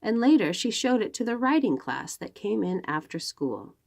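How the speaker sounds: lively storybook read-aloud; reading to children. Acted. Librarian reads a picture book to the children, lively storytelling.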